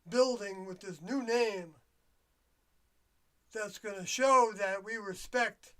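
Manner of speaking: mild mock government speech; mock official tone. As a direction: sound like a politician selling a show of goodness. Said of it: "I'm saying it in this way".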